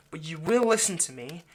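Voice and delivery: stern insistence. Acted. Vampire orders the bound captive to listen, stern and loud. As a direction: lay down the law.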